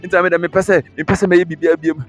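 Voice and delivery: hammed-up, insistent lament; mock complaining. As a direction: imitate someone reeling off complaints. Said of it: "You are complaining".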